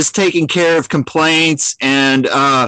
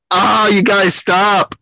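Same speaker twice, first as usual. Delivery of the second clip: higher, drawn-out playful complaint; mock exasperated plea; 4 semitones higher, slower than usual. Streamer to fellow moderators flooding him with notifications, mock exasperated. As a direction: draw out a mock plea to quit it.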